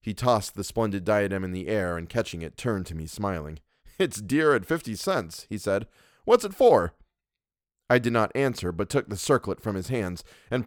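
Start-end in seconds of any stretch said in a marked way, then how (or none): 4.0-6.9 joking Louis. Acted. Louis joking about crown.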